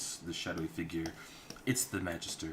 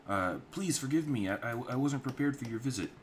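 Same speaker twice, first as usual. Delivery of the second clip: nervous innkeeper; 6 semitones higher, 4 dB louder than usual. Acted.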